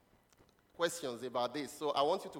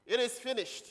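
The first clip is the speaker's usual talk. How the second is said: high-pitched, declaimed announcement; scripture proclamation; 8 semitones higher than usual. Acted. Preacher gives the church the sixth word, proclaimed high.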